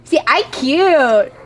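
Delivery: talking with squeezed cheeks; squished cheeks. Real, not acted. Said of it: "Can you squeeze your cheeks?".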